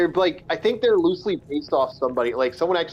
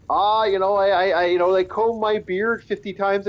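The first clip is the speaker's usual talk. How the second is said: lightly imitated Scottish-Irish dwarf, pitched higher; mock Scottish accent; 5 semitones higher than usual. Mocking players who voice every dwarf, mock Scottish accent. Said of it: "they sound like that voice like this".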